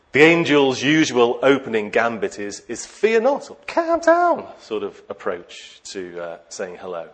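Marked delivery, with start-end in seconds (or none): 2.9-4.5 high, hammed-up "Fear not"; mock angel call. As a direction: squeak it like a startled herald. Angel's usual opening gambit.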